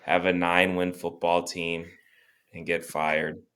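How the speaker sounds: measured speech with long dramatic pauses; deliberate rallying monologue; pep-talk speech. Acted. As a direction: address the fans like a solemn orator, pausing between phrases. Continues speech to fans.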